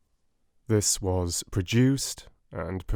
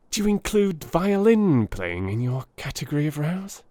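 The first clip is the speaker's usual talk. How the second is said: anxiously; 8 semitones higher than usual. A narrator's reading. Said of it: "he asked anxiously".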